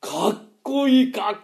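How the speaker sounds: slow, drawn-out admiring praise; admiring sigh. Acted. Young man admiring the boss, slow and dreamy. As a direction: savour each word of admiration.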